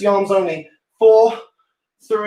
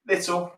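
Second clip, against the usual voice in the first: Little said slowly with weight on it; stress on little; 3 semitones lower, 7 dB quieter than usual. Shown as a demonstration. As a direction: lean on Little, a bit lower and slower. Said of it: "emphasis on little".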